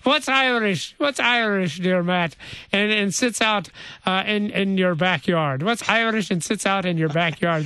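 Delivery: playful Irish brogue; lightly put-on Irish accent. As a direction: pose a riddle in a light Irish lilt. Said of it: "pull this Irish accent out".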